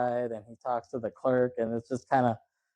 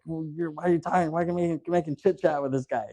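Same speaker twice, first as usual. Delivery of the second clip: quick, higher-pitched mock scolding; retold berating; 5 semitones higher, faster than usual. Gunman confronting the clerk in a retold scene, mock berating. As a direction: imitate a rushed, irritated challenge.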